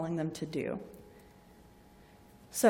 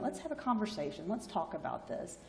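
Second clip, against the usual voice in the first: gentle invitation; 7 dB quieter than usual. Retold or imitated. Nurse sitting down with patient.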